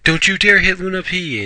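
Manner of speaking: mock freak-out, shrieked very high. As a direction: squeal it way up in startled panic. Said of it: "Usagi freaks out and goes".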